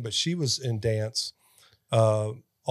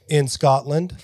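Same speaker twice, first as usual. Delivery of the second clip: louder stab at a Scottish accent; attempted Scottish accent; 3 semitones higher, 5 dB louder, slower than usual. Shown as a demonstration. Host copying the kid's accent, badly faked Scottish. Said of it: "I can do a Scottish".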